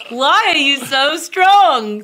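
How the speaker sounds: slow and strained through gritted teeth. Retold or imitated. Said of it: "through gritted teeth".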